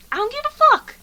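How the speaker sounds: high, loud comic yell; mock outburst. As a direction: shout your indifference at full pitch. Mock outburst when asked for opinion.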